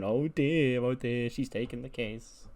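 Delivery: lightly gloating witch voice; two witches tittering over the taken case; mock gleeful witches. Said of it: "just, like, laughing".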